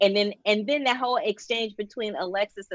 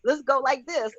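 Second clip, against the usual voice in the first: mock flustered writers; 7 semitones higher than usual. Mimicking panicked writers rushing the plot.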